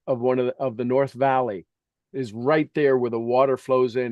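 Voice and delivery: ordinary talk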